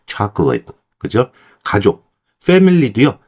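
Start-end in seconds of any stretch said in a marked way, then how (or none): 0.1-0.7 chocolate with the middle vowel swallowed; chocolate as CHOC-lit; reduced chocolate. Shown as a demonstration. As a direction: rush through the middle of chocolate. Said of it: "되게 빠르게 지나간다는 얘기예요".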